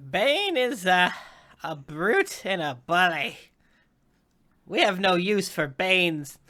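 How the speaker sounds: a hint of a haughty witch; lightly voiced cultist. Necromancer dismissing Tico's cult, lightly haughty. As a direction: scorn Bane, lightly in character.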